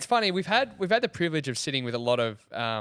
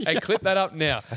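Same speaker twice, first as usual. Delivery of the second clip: laughing while joking; 3 semitones higher, 3 dB louder than usual. Real, not acted. Host joking to the guest about a promo clip, laughing. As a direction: toss it off through a laugh.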